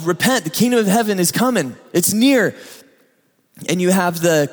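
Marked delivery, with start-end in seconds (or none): 0.0-2.6 calling out. Acted. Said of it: "He's calling".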